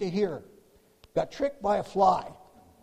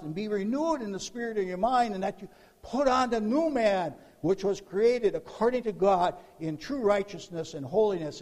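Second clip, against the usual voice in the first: raised, insistent scripture proclamation; impassioned preaching; 3 semitones higher, 3 dB louder than usual. Acted. Preacher urges believers to put on new man, impassioned preaching. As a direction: keep pressing the verse home. Carries on preaching the verse forcefully.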